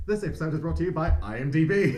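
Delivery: playful ad-read delivery; mock sponsor read. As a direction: announce a pretend podcast sponsor. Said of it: "we need to intro the ad segment".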